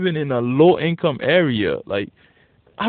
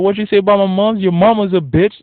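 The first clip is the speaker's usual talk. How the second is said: mock angry comeback; 6 semitones higher, 7 dB louder than usual. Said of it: "They'd be like".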